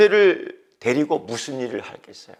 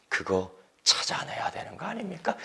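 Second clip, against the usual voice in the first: 아닙니까 whispered with a falling end; whispered question; 7 dB quieter than usual. Shown as a demonstration. Pastor urging the congregation, whispered. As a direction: lean in and whisper the challenge. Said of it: "repeated aloud after whisper".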